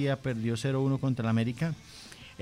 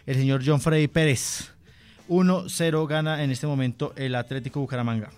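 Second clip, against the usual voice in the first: excited goal report; 4 dB louder than usual. Real, not acted. Goal report after the call.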